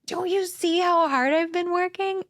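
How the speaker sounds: high-pitched, indignant snap at her husband; exasperated outburst. Retold or imitated. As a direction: throw it back at him, hurt and fed up. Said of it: "instantly I was just like".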